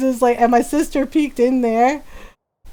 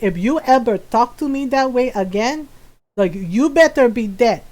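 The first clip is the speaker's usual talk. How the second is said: imitating stern mom; 2 semitones lower than usual. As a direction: mimic a mother laying down the law. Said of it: "she do my voice very well".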